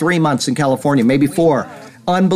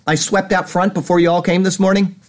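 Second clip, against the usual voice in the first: ordinary talk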